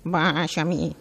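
a light trembling frog croak. A narrator's reading. Frog asks the princess for a kiss, trembling croak. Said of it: "Con un tremolo gracidio".

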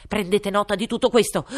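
loud, high royal command; booming king. Acted. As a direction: bellow it like a pompous king. King's voice. (re tonante)

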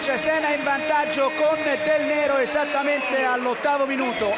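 loud radio update; loud score flash. Real, not acted. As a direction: announce the goal loudly.

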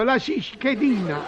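cischedina with an extra ci sound at the start; comic mangled cischedina; mispronounced word. Acted. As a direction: say cischedina, not schedina. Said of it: "ha detto cischedina".

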